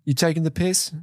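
mock English tough-guy accent; Jason Statham. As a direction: challenge in a put-on English accent. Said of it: "that was Jason Statham briefly".

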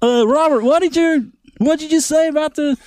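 mock Aussie wildlife presenter; Australian accent. Robert Irwin explaining crocs on a talk show, light Aussie accent. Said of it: "Oh, good day, mate".

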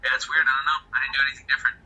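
bitcrushed robotic audio; glitchy digital connection. Real, not acted. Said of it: "echoing into a machine now".

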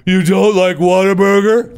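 high, slow, outraged squeal of disbelief; a mock-outraged Texan, pitched high and drawn out; indignant Texan. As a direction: play an offended Texas fan. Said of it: "Texas people ... getting all your shoulders all jacked up".

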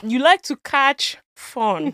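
slow teaching pace, pause before fun; measured, word-by-word delivery; slow demonstration. Shown as a demonstration. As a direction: spell it out slowly up to fun. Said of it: "even simpler. Fun".

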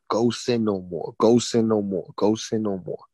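low, measured repeated command; insistent inner voice. Retold or imitated. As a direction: intone it low and steady. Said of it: "I keep hearing this voice loud in my head".

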